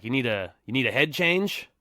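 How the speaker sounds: a lightly voiced stoner pushing a head change; old stoner voice. Dad's friend offering weed, as a mild stoner voice.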